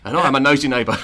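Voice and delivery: lightly voiced Cockney impression; proper East End delivery; Michael Caine. Introducing himself as a nosy neighbour, Michael Caine impression. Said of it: "I am Michael Caine".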